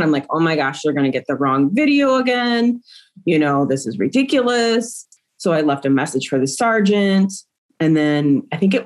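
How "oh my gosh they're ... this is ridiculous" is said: mildly alarmed, rising in pitch; a touch of exasperated panic; retold freaking out. Mother retelling her worry over the wrong video, mildly panicked. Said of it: "So I was freaking out".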